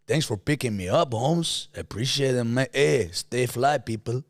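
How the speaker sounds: drawled put-on accent greeting. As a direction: lay on the accent with stretched-out endings. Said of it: "trying to do the accent".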